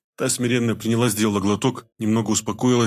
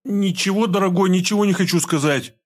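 much higher, frightened denial; hunted, scared; 9 semitones higher than usual. A narrator's reading. Scared wife denies everything to her husband, frightened. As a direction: deny it in a panic. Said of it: "затравленно ответила хозяйка дома".

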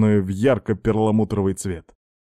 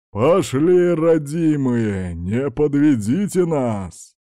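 shouting to horses; 4 semitones higher, much slower than usual. Acted. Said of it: "все услышали крик".

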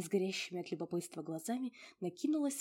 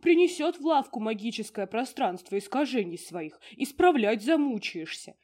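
1 gruff little mushroom spirit; 4 semitones higher, 9 dB louder than usual. Acted. Borovichok speaking.

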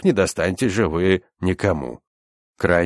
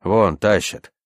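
ordinary delivery

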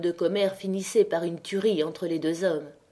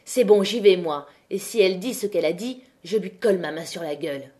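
threatening; 3 dB louder than usual. Acted. Maheu storming out to confront.

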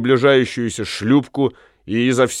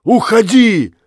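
much higher, louder furious Уходи!; shouted go away; 9 semitones higher, 5 dB louder than usual. Acted. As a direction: bark Уходи! at her. Jealous husband drives wife away.

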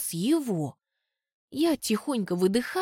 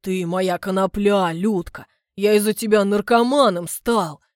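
clumsy compliment; 6 dB louder than usual. Acted. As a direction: declare it proudly. Suitor's parting compliment.

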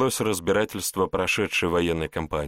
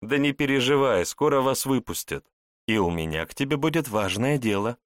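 higher, purring, meaningful voice; cartoon princess; 6 semitones higher than usual. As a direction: purr it with a knowing hint. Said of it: "многозначительно промурлыкала пиромантка".

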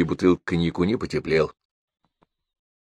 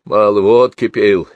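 spiteful answer; 3 semitones higher, 7 dB louder than usual. Acted. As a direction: spit the words out in spite. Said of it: "злобно ответил Семён Кузьмич".

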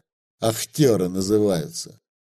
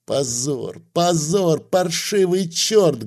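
loud angry hiss; 5 semitones higher, slower than usual. A narrator's reading. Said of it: "громко зашумел".

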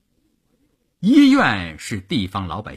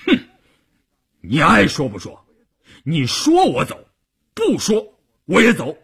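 stubborn dismissal; 5 semitones higher than usual. Acted.

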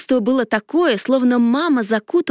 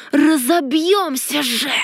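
dragon voice; 4 semitones higher, slower than usual. A narrator's reading. Dragon yelling in dive.

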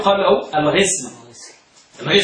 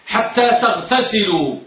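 تلقين بصوت واضح. Shown as a demonstration. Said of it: "ارفع صوتك لأسمعك بأنك قلت حتى تغتسلوا".

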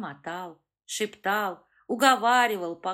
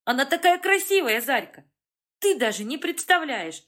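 much higher, louder gushing; excited; 6 semitones higher, 7 dB louder than usual. A narrator's reading. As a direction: rave about her, thrilled. Dim gushing over Faina.

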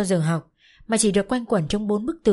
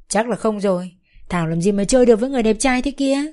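gleeful teasing; 3 semitones higher, 5 dB louder than usual. Acted. Friends ribbing Thảo about her handsome companion, gleeful. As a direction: rib Thảo with glee. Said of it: "vừa nói vừa cười khoái chí".

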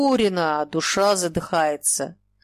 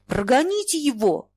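shout; 7 semitones higher than usual. Acted. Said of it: "Шура кричит".

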